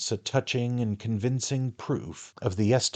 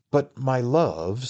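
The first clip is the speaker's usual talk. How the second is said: humble; 4 semitones higher, 6 dB louder, slower than usual. A narrator's reading. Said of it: "with great humility".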